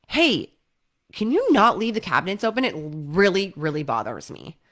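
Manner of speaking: snippy, irritated request; with attitude. Shown as a demonstration. Partner complaining about open cabinets, with attitude. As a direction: nag about the cabinets with an edge. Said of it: "But they said it with attitude".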